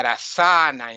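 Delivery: asana stressed on the middle a; long middle vowel in asana; wrong pronunciation. Shown as a demonstration. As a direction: say asana as a-SAA-na. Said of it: "Sanskrit is pronounced horribly".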